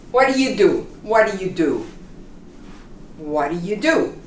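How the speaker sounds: What do you do with the t of what softened toward an R; flapped t. Shown as a demonstration. Teacher modeling fast American speech. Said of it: "becomes like an R when you say it fast".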